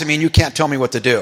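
quick, mildly heated mock protest; imitated defiant protest. Chaplain telling off his new overseer, mildly imitated defiance. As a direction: rattle off a retold refusal, only lightly heated. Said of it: "yelled at me in front of the other senior chaplains".

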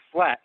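flat emphasized; stress on flat. Shown as a demonstration. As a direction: lean on the word flat, giving it a little extra weight. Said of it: "I emphasize the word flat".

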